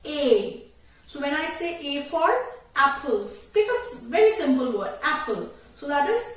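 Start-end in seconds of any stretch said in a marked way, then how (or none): 0.1-0.7 ए drawn out with the jaw dropped; stretched A. Shown as a demonstration. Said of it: "आपकी jaw को stretch करके नीचे की तरफ लाना है".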